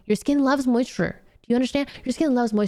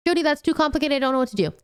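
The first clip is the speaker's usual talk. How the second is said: high, whiny mock viewer complaint; 6 semitones higher, faster than usual. Mock viewer whining that skincare is too complicated. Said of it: "I'm gonna shamelessly plug".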